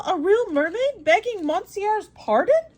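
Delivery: carried away, then remembers his manners; astonished cry. Acted. Servant Conseil to his master, amazed and excited. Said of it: "cried Conseil".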